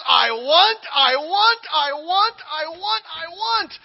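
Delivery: loud, high, insistent; demanding whine. Retold or imitated. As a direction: grab for it like a greedy child. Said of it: "he just says".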